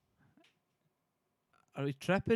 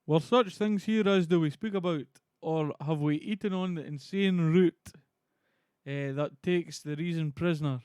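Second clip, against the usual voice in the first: loud, measured stage voice; Banquo in Shakespearean declamation; 2 semitones higher, 5 dB louder than usual. Acted. Streamer reading Banquo for viewers, theatrical. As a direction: declaim the question, easing off at the end.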